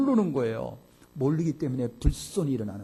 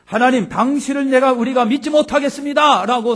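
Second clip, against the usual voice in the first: defiant declaration; 8 semitones higher, 9 dB louder than usual. Acted. Voicing Israelites rejecting God.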